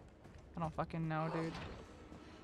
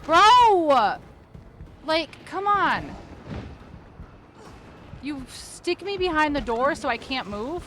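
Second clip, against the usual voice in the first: loud, high frantic gamer shouts; panicked yelling; 6 semitones higher, 7 dB louder than usual. Real, not acted. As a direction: yell in real panic at the screen. Caught by monster, yelling.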